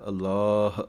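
ਅਲਾਹ with a long ਲਾ and a clear ਹ at the end; long vowel. Shown as a demonstration. Teacher models ਅਲਾਹ for students with a long ਲਾ. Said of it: "ਲੱਲੇ ਦੇ ਕੰਨੇ ਨੂੰ ਲੰਮਾ ਪੜ੍ਹਨਾ ਹੈ".

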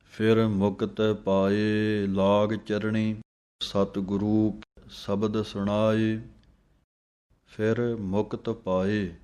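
slow, measured reading of Gurbani; scripture recitation. Shown as a demonstration. Teacher reciting Gurbani slowly for students to copy. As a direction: recite each phrase slowly and clearly.

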